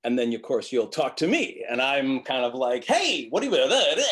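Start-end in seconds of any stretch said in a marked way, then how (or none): 2.8-4.1 high, slow sing-song greeting; high slow melodic hello. Shown as a demonstration. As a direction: swing the tune wide and bright. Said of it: "I'm extremely melodic".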